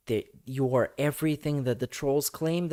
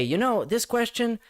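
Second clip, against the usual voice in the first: mocking a dodge. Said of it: "'Cause you can just say".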